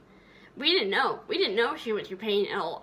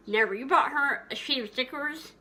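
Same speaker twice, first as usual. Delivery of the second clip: usual speaking voice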